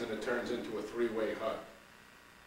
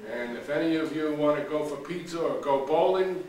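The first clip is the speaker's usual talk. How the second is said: Frank's announcement; 4 semitones higher, 6 dB louder than usual. Acted. Frank announces selling the pizza bowl.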